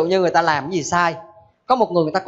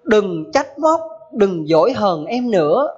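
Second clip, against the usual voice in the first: poem recital; slower than usual. Acted. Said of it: "Thầy có làm cái đoạn thơ như thế này".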